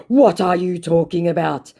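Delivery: high, loud baffled scammer; mock scammer. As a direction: act puzzled as the put-on scammer. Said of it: "said my scammer".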